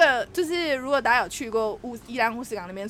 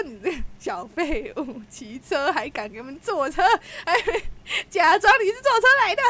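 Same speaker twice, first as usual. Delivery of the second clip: mock rage; 3 semitones higher than usual. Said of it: "我直接暴怒欸".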